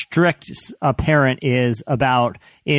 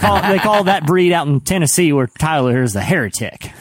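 put-on Southern accent; 4 semitones higher than usual. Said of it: "terrible Southern accent".

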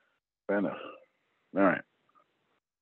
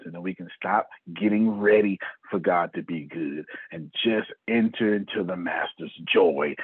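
raised, slowed preaching voice; 3 semitones higher than usual. Acted. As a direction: preach it with rising fervor. Preaches to the group.

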